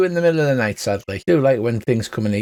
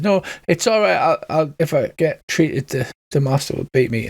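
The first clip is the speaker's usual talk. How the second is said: frightened wolf; 4 semitones higher than usual. Acted. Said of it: "pulls back and says".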